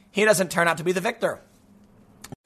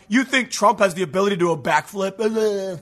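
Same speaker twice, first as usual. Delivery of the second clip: mock incredulous. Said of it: "they're gonna be like".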